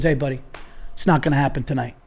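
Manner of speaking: low, quiet imitation of a bouncer; firm bouncer. Ex-cop bouncer refuses drunk customer.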